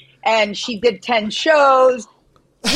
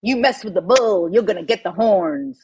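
learner's restrained Southern imitation; attempted Southern drawl; 4 semitones lower than usual. Shown as a demonstration. Copying co-host's saying, attempted Southern drawl. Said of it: "you gotta nail this accent".

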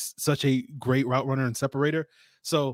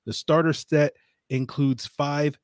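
ad read. Acted. Host reads the Harry's sponsor spot to listeners, as an ad read. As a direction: sell the razors like a host's ad spot.

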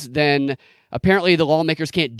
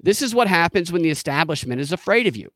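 lightly voiced politician, building higher; mock campaign speech; 5 semitones higher than usual. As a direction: start calm, then rise into a rally cry. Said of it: "He needs to say".

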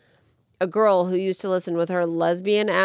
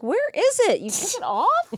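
shocked whine; 10 semitones higher than usual. Retold or imitated. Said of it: "And I'm like".

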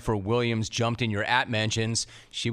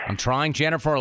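casual delivery; 3 semitones higher than usual. Shown as a demonstration. Host tries out the tweet aloud, light and casual. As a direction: say it like a casual shrug. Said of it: "how would it have sounded?".

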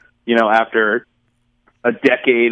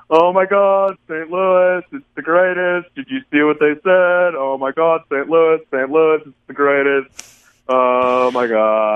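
mocking impression of Michelle. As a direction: tease a friend with an overexcited hometown fan voice. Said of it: "why are you impersonating me as if I'm Peter Griffin".

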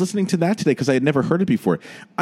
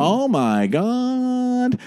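high, drawn-out whiny wail; Sandy Dennis impression; 10 semitones higher, much slower than usual. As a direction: stretch it out like a panicked, whining wife. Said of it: "that's Sandy Dennis and the Out of Towners".

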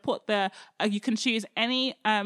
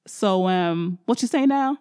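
gloating; 4 semitones lower, 6 dB louder than usual. Acted. Elijah gloats after God answers.

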